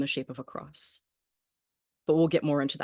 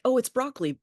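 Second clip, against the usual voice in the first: high-pitched re-enacted "oh!" of recognition; retold realization; 10 semitones higher, 4 dB louder than usual. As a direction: replay a sudden discovery, pitched up. Retelling her first mistaken reaction.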